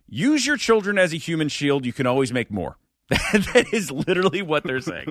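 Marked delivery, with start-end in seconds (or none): 0.1-2.8 mock official voice. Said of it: "You're saying".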